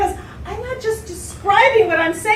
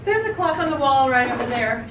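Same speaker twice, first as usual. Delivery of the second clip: dry; 4 semitones lower than usual. Acted. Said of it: "she said dryly".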